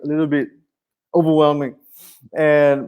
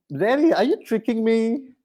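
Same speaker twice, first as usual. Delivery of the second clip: daughter's voice; 5 semitones higher, 4 dB quieter than usual. Retold or imitated. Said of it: "my daughter Scarlett, like, saying".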